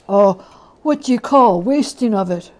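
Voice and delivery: a shocked but greedy fence; loud disbelieving old dealer; old Joe, incredulous. Acted. Joe asks the charwoman.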